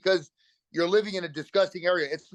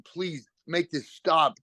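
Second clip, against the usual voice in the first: slow pleading; much slower than usual. Retold or imitated. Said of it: "I was begging God and Odin".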